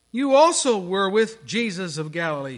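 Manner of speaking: mild mock accusation; accusing servant girl. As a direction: point the finger at him.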